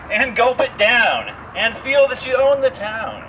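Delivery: hammed-up mock-solemn verse reading; theatrical poem reading to a tour group; poem recital. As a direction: declaim it like a grand old ode. Recites a comic pie poem.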